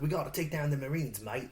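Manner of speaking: light mock Australian accent. Friend imitating the film's actor, mock Australian accent. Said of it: "scenes where he sounded Australian".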